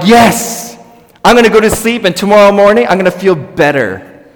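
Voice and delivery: loud, high burst of optimism, easing at the end; hopeful excitement. Acted. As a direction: exclaim it high and loud, like a pep talk to yourself. Voices hopeful self going to bed.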